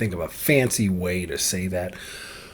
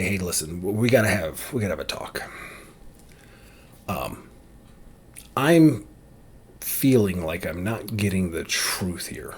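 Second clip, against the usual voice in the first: assertive; 4 semitones lower, 5 dB quieter than usual. Shown as a demonstration. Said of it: "to be assertive and, and say what I need".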